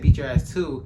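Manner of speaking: "too" leaned on with a scoff; stress on too. Retold or imitated. Teller repeating his threat to mock the word too. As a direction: repeat "Beat your ass too." with the weight on "too". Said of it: "'cause he said".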